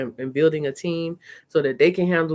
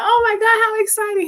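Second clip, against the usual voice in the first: squealing high and loud with a laugh; excited gush; 5 dB louder than usual. Retold or imitated. Mom reacting to son's story, high laughing squeal.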